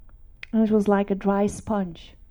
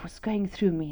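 hushed whisper; 6 dB quieter than usual. Real, not acted. To the congregation, recalling her life flashing by, whispered. Awestruck moment at deathbed.

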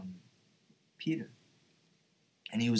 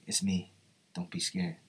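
calm Jesus; 4 semitones lower than usual. Retold or imitated. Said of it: "Jesus was like".

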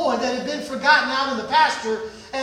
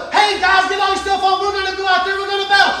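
mildly raised, eager soldier's call; rallying; 3 semitones higher, 4 dB louder, faster than usual. Acted. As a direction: hurry the troops into gear. Enemy army gearing up.

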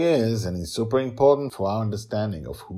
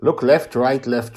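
explaining; 6 semitones higher, 9 dB louder than usual. A narrator's reading. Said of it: "Justin explains to her".

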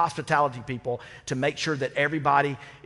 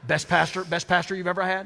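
"Best pastor" said with a laugh, higher and louder; teasing laugh; 5 semitones higher, 4 dB louder than usual. Real, not acted. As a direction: tease her playfully through a chuckle. Teasing the departing member.

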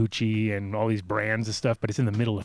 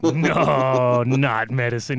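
disbelieving officer; 5 dB louder, much slower than usual. Retold or imitated. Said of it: "He's like".

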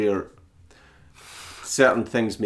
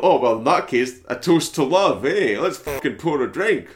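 sarcastic toast; 4 semitones higher, 4 dB louder than usual. Retold or imitated. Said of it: "it's like when you say".

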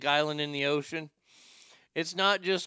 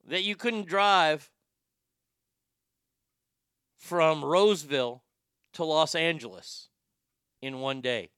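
a hint of a grumbly old commentator; lightly voiced Andy Rooney rant. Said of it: "in my best Andy Rooney impersonation".

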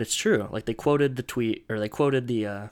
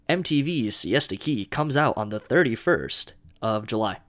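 TV announcer voice; 4 dB louder than usual. Shown as a demonstration. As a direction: announce it like a TV promo. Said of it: "That's my best T V announcer voice".

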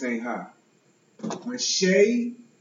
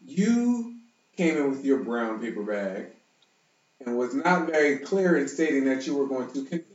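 Shay voice. Shown as a demonstration. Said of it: "this is my Shay voice".

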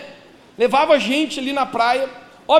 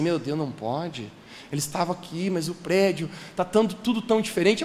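hushed, much softer panicky self-talk; panicked inner thought; 7 semitones lower, 8 dB quieter than usual. Retold or imitated. Lost child thinking to himself on the beach, hushed panic.

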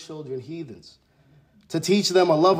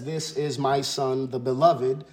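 voice from heaven. Retold or imitated. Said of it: "the voice says".

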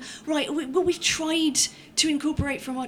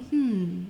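chin-stroking hmm; 4 semitones lower than usual. Shown as a demonstration. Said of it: "optional chin stroking".

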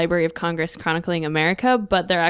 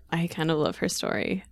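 whispered; 7 dB quieter than usual. Real, not acted. Fond aside about the inmate.

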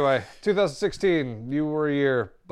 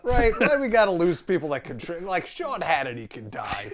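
angry outburst; 4 semitones higher than usual. Real, not acted. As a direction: really shout down the people you hate. Ranting about hated pundits.

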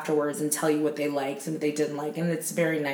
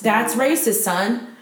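scolding callout; 5 semitones higher, 4 dB louder, slower than usual. Retold or imitated. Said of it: "And I'm like".

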